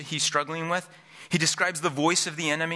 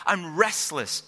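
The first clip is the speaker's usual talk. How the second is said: desperate cry; 4 semitones higher, slower than usual. Acted. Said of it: "desperation in David here in this opening cry".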